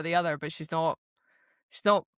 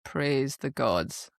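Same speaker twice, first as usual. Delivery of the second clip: very slow, lower mock relief; retold sarcasm; 4 semitones lower, much slower than usual. Imitating him when she's finally ready, slow sarcasm. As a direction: draw it out low and dry. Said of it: "And then he goes".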